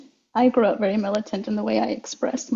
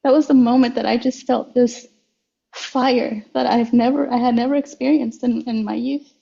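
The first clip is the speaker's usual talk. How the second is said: emotional; 3 semitones higher than usual. Real, not acted. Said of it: "sorry, I'm getting emotional".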